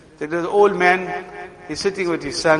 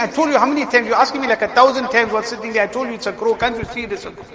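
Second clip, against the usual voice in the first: put-on raised, exasperated outburst at the old father; frenzied son; 5 semitones higher, faster than usual. Son losing his temper with his old father, raised and exasperated. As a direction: snap at him, fed up and shouting. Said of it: "He's in a frenzy saying".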